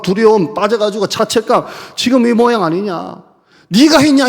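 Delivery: mock furious rebuke. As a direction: hammer him with every accusation. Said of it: "나는 그랬을 것 같아요".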